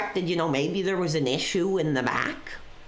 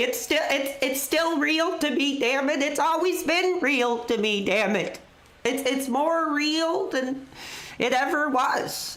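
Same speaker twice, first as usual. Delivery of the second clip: higher, mock tearful insistence; hammed-up emotional; 5 semitones higher than usual. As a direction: overplay the choked-up fan. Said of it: "I didn't want to get this emotional".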